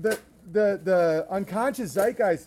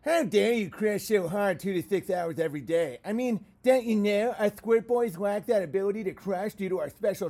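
lightly put-on whiny fan voice, a touch faster; mocking fan voice. Shown as a demonstration. Reading a fan's letter aloud in a lightly mocking voice. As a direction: read the letter as a smug basement dweller, lightly voiced. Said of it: "in the, in the voice".

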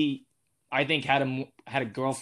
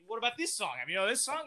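dad testing; 9 semitones higher, 6 dB quieter, much faster than usual. Retold or imitated. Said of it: "He's like".

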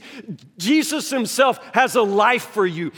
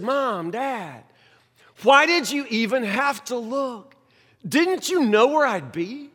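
calm; 2 semitones higher than usual. Retold or imitated. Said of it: "looked back at her so calmly".

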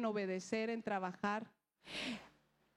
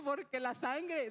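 ordinary talk

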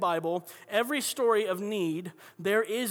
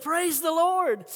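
high, stretched-out cry of praise; retold excited holler; 8 semitones higher, 3 dB louder, slower than usual. Lady jumping and clapping at the neighbor, excited holler. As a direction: imitate an overjoyed lady, voice soaring. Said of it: "so excited".

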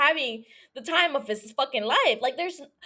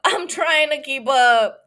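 louder, laughing through it; laughing repeat; 7 dB louder, slower than usual. Real, not acted. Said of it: "And I'm trying to keep up".

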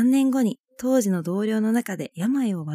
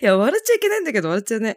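stifled giggles; much faster than usual. Real, not acted.

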